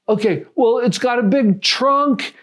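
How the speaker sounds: high, drawn-out imitated teen hints; imitated kid coaxing out an answer; hinting teen. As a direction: play a teen listing clues slowly. Acting out teen dropping hints.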